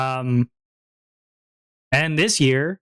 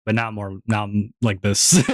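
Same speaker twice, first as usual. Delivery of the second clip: lower current voice; 5 semitones lower than usual. Shown as a demonstration. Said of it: "I've been ruined".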